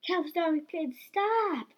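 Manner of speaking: high, loud strict command; strict shout, rising sharply in pitch. A narrator's reading. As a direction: order them sternly to halt. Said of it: "Miss Jones said strictly".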